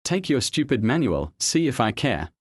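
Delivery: mock scream back. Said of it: "Richard screamed back".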